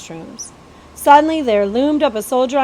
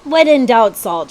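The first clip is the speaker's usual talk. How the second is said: chuckling; 2 semitones higher, 5 dB louder than usual. Acted. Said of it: "chuckled Captain Nips".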